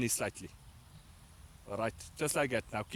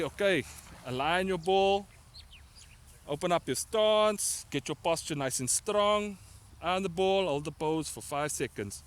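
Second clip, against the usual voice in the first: slow, raised coaching calls; coach commands; 5 semitones higher, 4 dB louder, slower than usual. Shown as a demonstration. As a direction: call each step out slowly. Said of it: "Then I'm gonna say".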